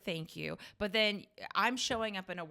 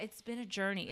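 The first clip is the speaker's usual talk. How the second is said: mock reality show. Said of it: "Am I on The Bachelor now?".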